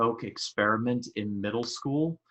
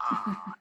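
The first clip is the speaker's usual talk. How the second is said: high, soft wincing "ah"; small imitated yelp of sympathetic pain; pained wince; 10 semitones higher, 4 dB quieter than usual. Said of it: "I was legitimately wincing at that".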